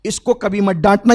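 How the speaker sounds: loud warning ending on a rise at डांटना; the Prophet warning Umar, loud; loud firm warning. Acted. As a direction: stress कभी and let डांटना rise. Prophet warns Umar, repeated line.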